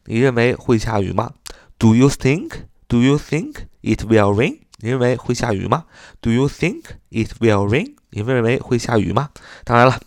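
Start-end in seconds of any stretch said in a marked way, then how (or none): 1.8-4.6 slow, in separate chunks, rising questioningly; slow reading. Shown as a demonstration. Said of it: "慢慢读，就是". 6.2-7.9 slow, in separate chunks, rising questioningly; slow reading. Shown as a demonstration. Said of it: "慢慢读，就是".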